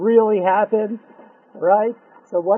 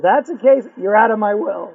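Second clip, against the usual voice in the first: much louder, cold cut-off; offended uncle; 6 dB louder than usual. Acted. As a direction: slam the door on him. Uncle disinherits him.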